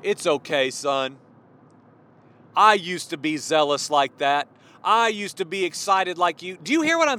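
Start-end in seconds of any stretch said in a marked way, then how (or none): 0.0-1.2 low, soft mock reassurance; acting out a gentle "there, there"; consoling pat on the back. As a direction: speak low, as if patting someone's back. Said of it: "pat somebody on the back and say".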